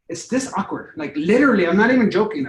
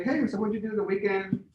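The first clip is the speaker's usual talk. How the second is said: easy, relaxed small talk, a touch softer; casual friendly; 4 dB quieter than usual. Shown as a demonstration. Sales rep chatting to a caller, relaxed and friendly. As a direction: chat like you're just curious. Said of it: "So if I'm going like".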